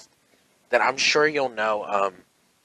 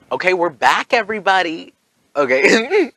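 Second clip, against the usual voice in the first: high, loud YouTuber comeback greeting; over-the-top channel host voice; overly peppy host welcome; 7 semitones higher, 6 dB louder than usual. Pretend. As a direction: ham up a big show-opening hello. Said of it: "That overly, like, "Welcome to the channel".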